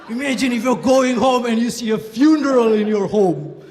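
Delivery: loud, dramatic motivational speaker, laughing; laughing through a booming motivator impression; mock speaker. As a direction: ham up the camp speaker's big pitch. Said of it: "he'd be like".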